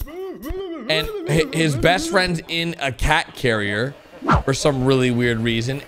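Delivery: normal talking voice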